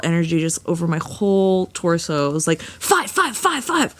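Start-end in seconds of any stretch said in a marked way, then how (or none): 2.6-3.9 high-pitched rapid repeats; acted frantic excitement. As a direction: let it burst out high, like an alarm going off. Acting out exploding energy inside her.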